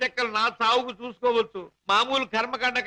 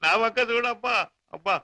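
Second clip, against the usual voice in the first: mock-tragic keening, understated; fake mourning lament; 3 semitones higher than usual. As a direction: put on a beggar's lament to milk sympathy. Con man fakes grieving father.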